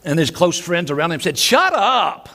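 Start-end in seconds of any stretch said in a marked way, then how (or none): 1.4-2.3 1 annoyed hush. Acted. Friends hushing the beggar.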